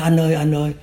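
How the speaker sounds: mock a crying man begging; tearful pleading. Former cadre kneeling before his victim, imitated tearful plea. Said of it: "Nó, nó khóc".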